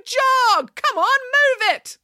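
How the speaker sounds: very high, loud orders; calling out. A narrator's reading. Nanny urging the jogger on, loud bossy shout. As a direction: holler to hurry someone along. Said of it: "called Nanny Piggins".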